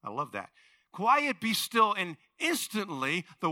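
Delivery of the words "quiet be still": slow, loud, deliberate rebuke; slow command. Retold or imitated. Jesus stilling the storm, slow and firm. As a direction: lay each word down firmly.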